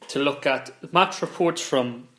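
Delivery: talking through hiccups; interrupted by a hiccup. Real, not acted. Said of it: "I keep burping. I've got hiccups".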